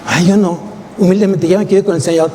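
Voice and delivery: quick, lightly voiced fake-pious believer; hint of a sanctimonious congregant mocked by the preacher; mock falsely humble. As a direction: mimic a phony humble churchgoer, hurried. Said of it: "No sean falsos, mustios".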